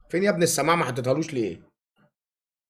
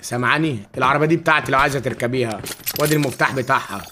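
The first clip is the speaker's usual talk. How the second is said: persona voice; 3 semitones lower than usual. Acted. Khartoum persona flirting in-game.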